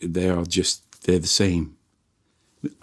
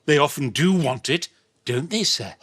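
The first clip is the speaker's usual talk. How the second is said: leering tailor; 3 semitones higher than usual. Acted. Sketch tailor catchphrase performed.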